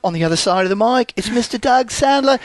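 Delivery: lightly put-on British accent; the speaker's British accent. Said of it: "it's why I'm doing the accent".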